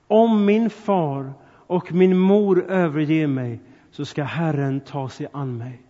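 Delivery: slow, weighty reading of the verse; solemn scripture reading. Acted. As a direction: let each word of scripture land slowly. Reads a Bible verse solemnly. (långsam, högtidlig bibelläsning)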